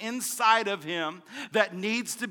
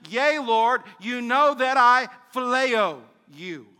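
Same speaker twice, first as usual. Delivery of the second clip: louder, slow insistent answer; earnest reply; 3 semitones higher, 5 dB louder, slower than usual. Acted. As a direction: plead it with conviction. Preacher voicing Peter's answer.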